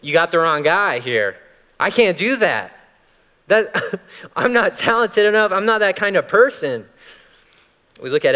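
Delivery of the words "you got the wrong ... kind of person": high, louder, pleading; panicky excuses. Retold or imitated. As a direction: wriggle out of the call in a panic. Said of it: "we say".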